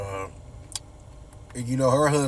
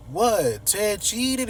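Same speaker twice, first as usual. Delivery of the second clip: shocked gasp; 9 semitones higher, much slower than usual. Retold or imitated. Haley learns Ted cheated.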